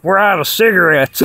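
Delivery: lightly voiced high Tyson imitation; high-pitched Mike Tyson. Dreamer quoting Tyson in the dream, light high-pitched mock voice. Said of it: "With that high-pitched voice".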